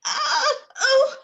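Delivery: high, crying groans of a stabbed man; dying cry. Acted. Polonius dying, crying out in pain. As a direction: cry out as the blade goes in.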